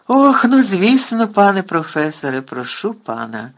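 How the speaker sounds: loud, high flustered rush; flustered eagerness. A narrator's reading. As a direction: bustle over yourself with happy eagerness. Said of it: "заметушився Гегрід".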